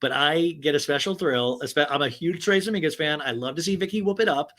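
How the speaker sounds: lightly voiced God. God confessing he is a fan, lightly voiced. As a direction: play God with only a slight put-on voice. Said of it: "this is my God voice".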